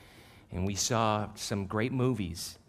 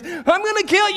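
mock menacing; 13 dB louder than usual. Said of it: "all she's hearing is".

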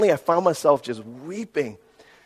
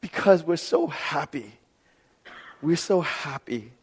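crying with joy; 5 dB quieter than usual. Retold or imitated. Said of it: "they were asking each other".

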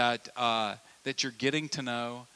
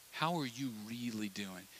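softer, intimate question; soft probing ask; 3 semitones lower, 8 dB quieter than usual. Retold or imitated. Friend probing softly across the table. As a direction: ask it gently and close. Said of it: "They're saying".

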